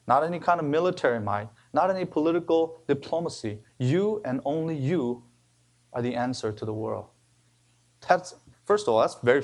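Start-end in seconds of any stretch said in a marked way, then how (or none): 3.8-5.2 slow, weighty stress on "You"; emphatic you. Shown as a demonstration. Preacher repeating Christ's charge to the church, slow stress on "You". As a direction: lean slowly into "You" both times. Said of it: "is very emphatic".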